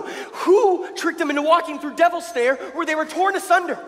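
rousing shout. Acted. Rallying speech to crowd.

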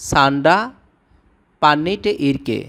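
সান্ডা with a retroflex nd, পান্নিটে with a doubled n; Tamil phrase modelled. Shown as a demonstration. Teacher showing viewers Tamil for fighting, careful pronunciation. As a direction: say সান্ডা পান্নিটে ইরকে word by word. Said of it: "এর তামিল উচ্চারণ হবে".

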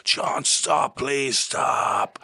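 high, urgent mock roar at a runaway pupil; retold roar. Teacher roaring at John to stop. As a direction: yell his name to stop him. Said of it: "the teacher ran in and roared like".

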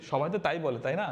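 ordinary talk

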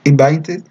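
invited with the final I and D sounded; invited, ending said in full; full ending demo. Shown as a demonstration. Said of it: "pronunciando la I y la D al final".

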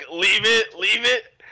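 firm, high-pitched dog-owner command; scolding a dog. Acted. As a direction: order the dog to drop it. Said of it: "Like a fucking dog".

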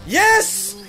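roaring on the final blow; triumphant yells. Real, not acted. Gamer cheers on his character's finishing blow.

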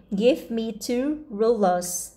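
"rulers" ending with a soft Z sound. Shown as a demonstration. Teacher models the plural ending for children. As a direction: let "rulers" end on a light buzzing Z. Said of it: "có chữ S ... đọc giảm nhẹ tương đương với chữ Z".

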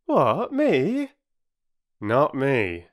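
high-pitched, affronted porter; huffy, haughty denial; lofty. A narrator's reading. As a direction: act above it all, offended. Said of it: "said Perks loftily".

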